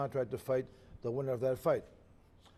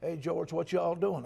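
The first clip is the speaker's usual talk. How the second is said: a light imitated southern drawl, slightly raised; 3 semitones higher, 4 dB louder, slower than usual. Boxing commissioner questioning George after the fight, in a lightly imitated southern drawl. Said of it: "in his southern drawl".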